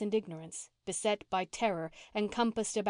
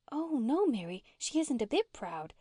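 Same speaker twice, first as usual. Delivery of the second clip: higher, eager protest; 4 semitones higher than usual. A narrator's reading. Una defends Nan to Mary, eagerly. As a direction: jump eagerly to her defence. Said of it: "said Una eagerly".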